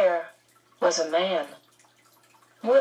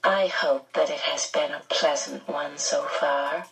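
soothing; 4 semitones lower than usual. Acted. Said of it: "became soothing again".

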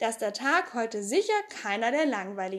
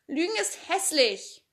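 put-on higher little girl's voice, a touch prim; a shy girl finally speaking up with a small scold; Annika scolding; 6 semitones higher than usual. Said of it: "sagte Annika".

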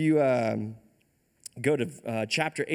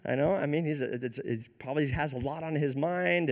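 making fun. Retold or imitated. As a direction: tease them with feigned helpfulness. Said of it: "Elijah starts making fun of them".

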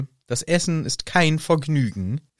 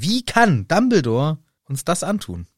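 acted indignant outburst, raised pitch; empörtes Herausplatzen; 5 semitones higher than usual. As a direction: blurt it out in mild mock outrage. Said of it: "Aber erstmal platzt's aus Hermine raus". (empört herausgeplatzt, etwas erhöht)

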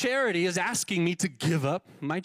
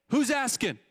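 guarded phone answer; 5 semitones higher than usual. Retold or imitated. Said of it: "you were supposed to say".

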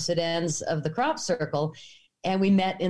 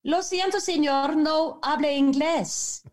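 imitated daughter in Spanish; 8 semitones higher than usual. Daughter answering the angry farmer, feigning no English. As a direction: put on a high girl's voice, playing innocent.

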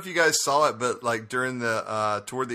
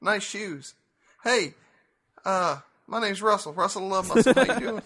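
higher NASCAR redneck pickup line; 7 semitones higher than usual. Pretend. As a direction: slick bar come-on in a high country voice. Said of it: "that high redneck voice like they have in nascar".

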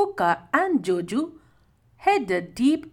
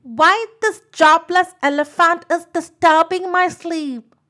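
higher, louder irritated complaint; annoyed sleepy bird's loud grumble; grumbling to himself; 6 semitones higher, 8 dB louder than usual. A narrator's reading. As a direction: complain crossly about being woken. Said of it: "said to himself".

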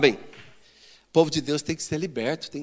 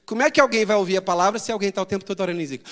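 ordinary delivery

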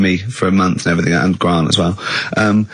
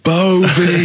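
shouted name; 8 semitones higher than usual. Retold or imitated. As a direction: bellow it from the top of the steps. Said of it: "and I shouted".

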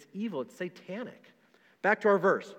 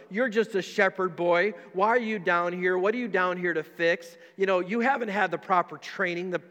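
mocking; 3 dB louder than usual. Eliab taunting David, lightly mocking and unhurried. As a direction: needle the little brother. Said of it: "he's kinda making fun of him".

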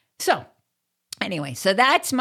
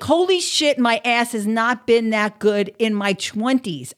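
amazed; 3 semitones higher, 3 dB louder than usual. Retold or imitated. Spotting an eighty-year-old woman's great figure, shocked. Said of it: "I was like".

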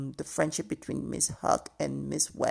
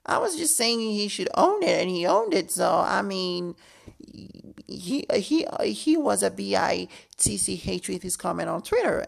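high defensive voice; 4 semitones higher, 4 dB louder than usual. Retold or imitated. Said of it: "Doctor Heavenly was like".

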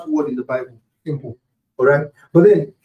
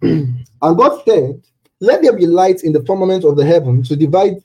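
booming biblical narration. Acted. Preacher reads Genesis verses.

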